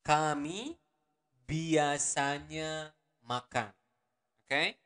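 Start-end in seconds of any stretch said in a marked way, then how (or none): 0.1-3.7 slow demo. Shown as a demonstration. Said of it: "teacher models slowly".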